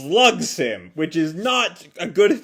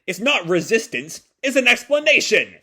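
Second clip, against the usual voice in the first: mock fighting cry; 6 semitones higher, 3 dB louder than usual. Nagi attacking his father.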